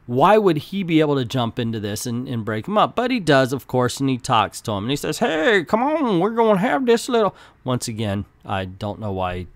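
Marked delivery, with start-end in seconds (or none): 5.2-7.3 put-on deep Mississippi accent. Hero talking gangs into peace, deep Mississippi accent. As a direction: lay on a thick Mississippi accent. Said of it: "he would have this deep Mi-, Mississippi accent".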